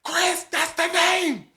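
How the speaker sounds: thrilled by the perfect name; triumphant whisper. Retold or imitated. Excited about band name in class.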